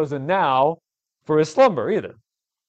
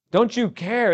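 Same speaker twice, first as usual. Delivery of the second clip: high, loud accusing cry; yelling at God; 8 semitones higher, 4 dB louder, slower than usual. Acted. Frightened men yelling at God, high and accusing. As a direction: fling it at God in fear. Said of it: "they're yelling at God".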